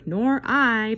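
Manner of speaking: a touch of a sulky pout; pouting mouse. Acted. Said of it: "pouted the mouse".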